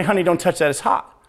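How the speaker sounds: soft parent warning; gentle warning to toddler. Retold or imitated. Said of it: "rush over and say".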